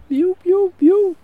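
screechy seagull mew, very high; gull impression. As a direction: squawk it like a gull. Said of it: "Is that my gull impression?".

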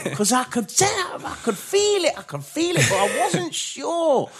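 a friend imitating the director's reply about sensing it; Shimmy impersonation. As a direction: mimic your friend drawing it out, smug and pleased. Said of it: "That's my little Shimmy impersonation".

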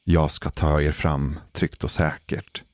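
slow, soothing pilot announcement; calm captain voice. Retold or imitated. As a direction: reassure the passengers slowly like a captain. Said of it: "Inte den här lugna". (lugn, långsam kaptensröst)

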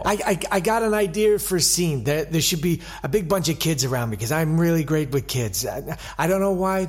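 lightly voiced eager American star, quick; Gene Kelly. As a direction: pitch the idea fast with a hint of American. Plays Gene Kelly pitching scenes.

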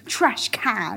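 trash can with an American twang; American accent. Shown as a demonstration. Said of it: "British versus American words".

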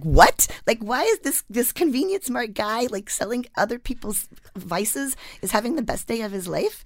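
loud, high, stunned what; disbelief. Retold or imitated. Writer hearing the clerk's happy news, loud stunned disbelief. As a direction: blurt it out in amazement. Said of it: "I was like".

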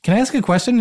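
high, pointed, slightly sarcastic; high, pointed question to dad. Retold or imitated. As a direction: ask it with barely held disbelief. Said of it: "And I was like".

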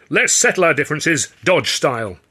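high, loud eager proposal; suddenly keen. A narrator's reading. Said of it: "suddenly like mustard".

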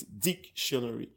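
DIC-tionary, first syllable set apart; dictionary with "dic" stressed and detached. Shown as a demonstration. Guest sums up for host, dictionary stressed on DIC. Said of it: "So you pronounce".

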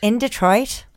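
American accent, matter-of-fact demo; put-on American pronunciation. Shown as a demonstration. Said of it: "Let me think of my American".

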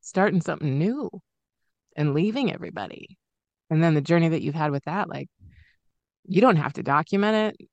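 fighting tears; teary. Real, not acted. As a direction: voice tight with held-back tears. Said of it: "getting all teary thinking about this".

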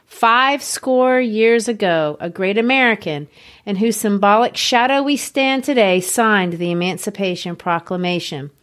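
measured, solemn oratory; lightly voiced King speech quote; quoting Doctor King. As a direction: read it like a sermon from the Lincoln Memorial steps. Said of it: "And I quote Doctor King here".

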